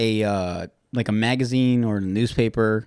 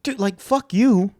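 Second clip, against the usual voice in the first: annoyed mom; 8 semitones higher, 3 dB louder than usual. Retold or imitated. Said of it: "this lady is like".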